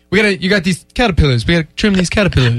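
fast, hammed-up barber voice; Eddie Murphy-ish barber. Barber telling him to trim his eyebrows, fast and hammed-up. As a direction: rattle it off like a joking barber. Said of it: "I don't know why Eddie Murphy was".

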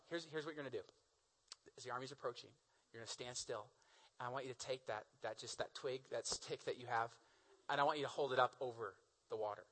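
soft, low, measured voice; calm instructions. Acted. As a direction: quietly lay out the plan, low and unhurried. God calmly gives Moses instructions.

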